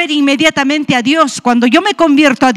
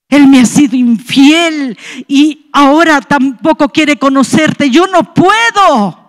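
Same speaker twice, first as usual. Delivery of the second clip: anguished protest; slower than usual. Retold or imitated. Wife telling God she cannot forgive infidelity, retold anguished protest. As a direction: protest helplessly, slowing and rising in pitch.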